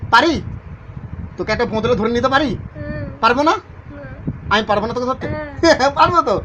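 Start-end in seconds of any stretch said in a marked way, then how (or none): 5.3-5.9 quick real chuckle. Real, not acted. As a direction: let out a brief laugh. Laughs while reassuring the spirit.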